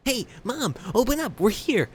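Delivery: put-on high-pitched girl calling to her mom. Emmy calls to her mother at the front door, high call.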